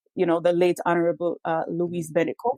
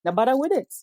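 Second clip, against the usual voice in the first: eye-rolling dismissal; 5 semitones higher than usual. Retold or imitated. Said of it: "rolled our eyes at him like".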